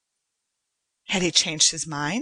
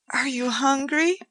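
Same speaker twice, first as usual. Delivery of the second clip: solicitous; 8 semitones higher than usual. A narrator's reading. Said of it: "Joanna asked solicitously".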